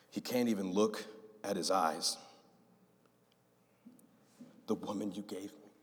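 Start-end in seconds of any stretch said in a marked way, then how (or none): 4.7-5.7 heartbroken. Retold or imitated.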